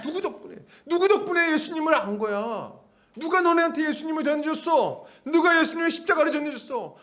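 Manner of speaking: volley of high, indignant questions; heated, high-pitched reproach; acted angry rebuke. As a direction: interrogate them like a scolding apostle. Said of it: "이렇게 막 화내면서 하진 않았어요".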